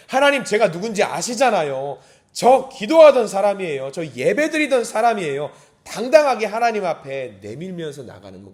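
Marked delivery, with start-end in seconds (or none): 0.1-5.5 loud, insistent appeal; bold impassioned plea. Acted. Believer in hardship pleads to God, bold and impassioned. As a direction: press your case before God.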